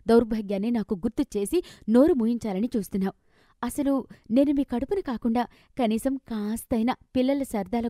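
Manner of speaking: heated complaint at her mother, pitch climbing; frustrated outburst. Acted. Daughter lashing out at her poor mother, angry. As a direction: vent years of frustration, sharp and bitter. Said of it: "అంటూ తల్లి మీద నోరు జారి".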